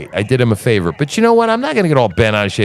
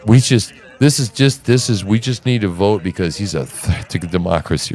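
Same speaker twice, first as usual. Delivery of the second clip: a hint of a smug pundit; mocking the guest; 4 semitones lower than usual. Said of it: "he goes".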